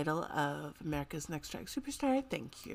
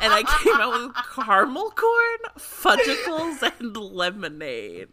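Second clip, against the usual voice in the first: robot voice; 4 semitones higher, 7 dB louder than usual. Pretend. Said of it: "I was a robot that just tried to name three human foods".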